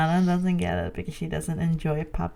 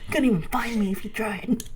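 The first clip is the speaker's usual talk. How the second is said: laughing whisper. Retold or imitated. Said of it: "whisper fighting".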